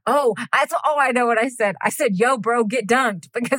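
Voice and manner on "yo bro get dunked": high, slow-drawn slang bro voice; slang Jesus. Acted. Co-host asked for slang Jesus, playful bro. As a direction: lightly play Jesus as a bro. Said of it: "Be slang Jesus for me".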